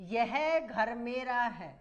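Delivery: "यह घर मेरा है" धीरे धीरे, शब्द शब्द अलग; बोर्ड पर लिखते हुए धीमे से पढ़ो; slow dictation. Shown as a demonstration. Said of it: "कई बार पूछे गए हैं ऐसे शब्द". (कक्षा को उदाहरण लिखवाती शिक्षिका, बहुत धीमे)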